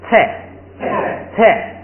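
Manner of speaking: teacher models 菜 for the class; model reading 菜. Shown as a demonstration. Teacher reading the word to students, careful model. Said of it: "最后那个".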